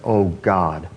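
slow, falling, reverent plea; heartfelt prayer, drawn out and fading; earnest cry to God. Retold or imitated. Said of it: "cry out like he's doing there".

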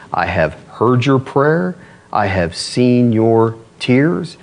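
slow, measured declaration; solemn scripture quote. Acted. Preacher reads God's answer to Hezekiah, solemn and slow. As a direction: deliver each word slowly, with weight.

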